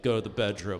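hushed mom. Retold or imitated. Mom quietly sends him away.

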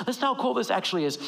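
fast, eager repeat of the line; quick repeat. Shown as a demonstration. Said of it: "But listen to how cool this actually is".

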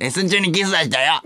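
put-on quick, squeaky child-star caricature; 芦田愛菜. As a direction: rattle it out as a fake little girl. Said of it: "芦田愛菜ちゃん、". (芦田愛菜のものまねで、子どもっぽく早口)

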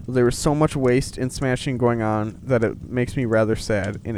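lightly performed storybook reading; measured read-aloud voice; letter read aloud. Acted. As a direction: read Father Christmas's letter out clearly. Reads Father Christmas letter aloud.

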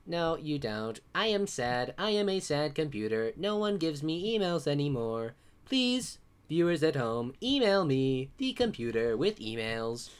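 lightly voiced sad computer. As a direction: play a mopey talking computer. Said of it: "This fun new character on the podcast".

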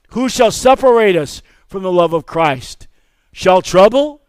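rising preacher's cadence; preaching. Acted. Pastor reads Romans to a war-weary church, preaching. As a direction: preach it to the congregation.

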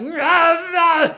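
high, loud growling rah rah; hammed-up roar at kids making a mess; mock angry roar. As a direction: roar like an angry monster parent. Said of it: "I'm like".

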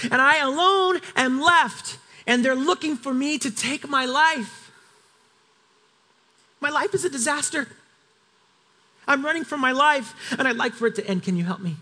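a desperate, weary appeal; exasperated plea. Acted. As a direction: Elijah begging God for an end, exasperated. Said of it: "because obviously you were listening to me the last time".

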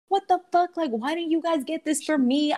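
imitating a high-pitched outraged complaint; retold angry yelling. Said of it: "heard her start yelling at her friends".

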